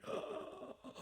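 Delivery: imitated soft, voiceless gasp; mock scared-to-death intake of breath; choked gasp. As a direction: gasp faintly like someone who can't breathe. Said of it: "she's on the bed doing".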